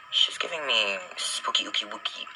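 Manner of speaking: slow, whispered spooky voice; hushed playful creepiness. Real, not acted. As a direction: whisper it like a ghost story. Spooky whisper about mascara.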